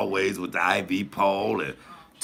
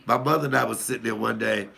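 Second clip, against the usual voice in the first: ordinary talk, nothing marked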